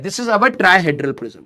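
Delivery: slow, drawn out dictation; slow because of a sore throat; speaking slowly. Shown as a demonstration. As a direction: take it word by word. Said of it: "मैं धीरे धीरे इसलिए बोल रहा हूं".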